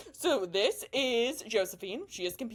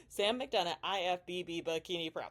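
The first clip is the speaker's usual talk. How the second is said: quieter, self-conscious repeat of the intro; awkward redo; 2 semitones lower, 4 dB quieter than usual. Shown as a demonstration. Vlogger redoing her intro for viewers, sheepish. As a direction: mutter the name again, a bit embarrassed. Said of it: "I feel so awk introducing myself".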